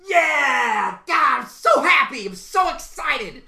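shouting, overexcited wrestler; slow, loud, high cheering; Seth Rollins. Acted. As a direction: yell it like a hyped-up wrestling star. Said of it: "screaming and shouting and cheering".

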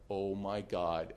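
stunned. Retold or imitated. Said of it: "I'm, like, going".

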